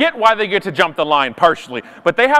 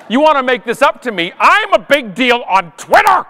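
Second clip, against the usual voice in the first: indignant rant; 4 semitones higher than usual. Acted. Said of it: "stage sixteen of Canadian anger".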